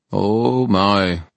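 drawn-out, mock-dismayed boredom. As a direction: sound unimpressed by the danger. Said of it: "he said in a bored voice".

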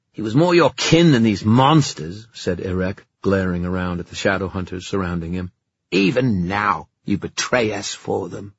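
loud, sneering accusation; angry fairy knight. Acted. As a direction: hurl the accusation with scorn. Erec glaring, accusing Kieran.

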